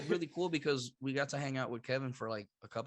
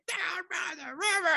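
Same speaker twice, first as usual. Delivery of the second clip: much higher, slow, hammed-up bellow of the skit line; Chris Farley impression. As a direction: belt it like the motivational speaker sketch. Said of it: "pull up the Saturday Night Skit".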